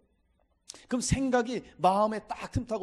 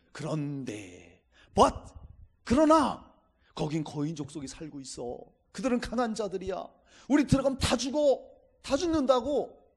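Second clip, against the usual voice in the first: complaining spies. Pretend. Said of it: "막 불평합니다".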